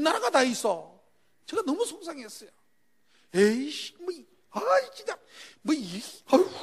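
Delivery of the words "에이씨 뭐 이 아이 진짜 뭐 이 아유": 억울하게 투덜대는 혼잣말; 분해서 혼자 씩씩대듯; 투덜거림. Retold or imitated. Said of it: "그러면서 이래". (맞고 나서 혼자 분해 투덜대기)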